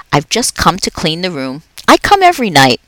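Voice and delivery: a jolly night janitor chatting to a pet; upbeat, chatty custodian; Aldo the cheerful janitor. Acted. Aldo keeps talking.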